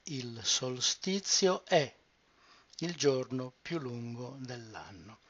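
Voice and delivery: the sentence said smoothly in one flow; fluid whole sentence. Shown as a demonstration. Teacher reading the sentence back fluidly to learners. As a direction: join it all up fluidly. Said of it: "put it back together for a fluid pronunciation".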